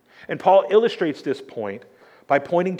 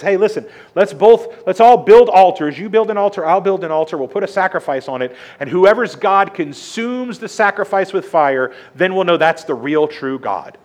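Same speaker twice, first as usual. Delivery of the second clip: bold challenge; 4 semitones higher, 5 dB louder than usual. Acted. Elijah challenges Baal's prophets.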